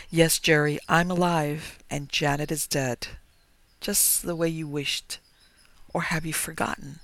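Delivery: a touch of mockery; mocking. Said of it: "Mockery was harsh in her voice".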